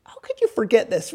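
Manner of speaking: understated exasperated question; angelic attitude. Acted. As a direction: chide them mildly, without raising the voice. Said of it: "they're just oozing with attitude".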